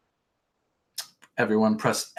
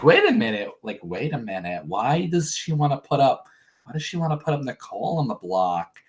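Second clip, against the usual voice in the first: put-on Staten Island accent. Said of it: "not even the right Staten Island accent".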